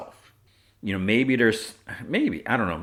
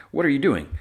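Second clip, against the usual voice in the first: mock yell, raised high and louder; half-yell it in a higher voice; retold yell; 8 semitones higher, 5 dB louder, faster than usual. Flint to Drayden mid-fight, retold yell. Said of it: "Flint yells for him".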